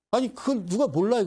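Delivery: high-pitched exasperated retort; acted "who doesn't know that" outrage; indignant. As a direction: protest at painfully obvious advice. Acted indignation at obvious advice.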